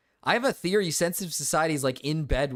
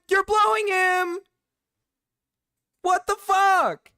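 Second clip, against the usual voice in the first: louder, higher repeated accusation; disbelieving shout; 13 semitones higher, 4 dB louder than usual. Real, not acted. Shouting accusations at the video, stunned.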